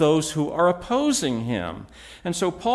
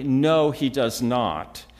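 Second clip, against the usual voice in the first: slow, emphatic denial; 4 semitones lower, 3 dB louder, slower than usual. Real, not acted. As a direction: say it firmly, drawing out each word. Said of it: "I would say emphatically".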